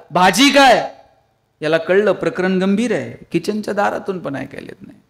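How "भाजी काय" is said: louder call. Retold or imitated. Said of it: "किचनच्या दारातून आवाज दिला".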